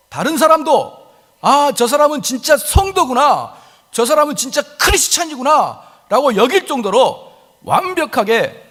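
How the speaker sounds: high, slow, impassioned preaching; fervent preaching. Acted. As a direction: preach it out with rising fervor. Preacher building intensity. (높고 느린 열정적 설교)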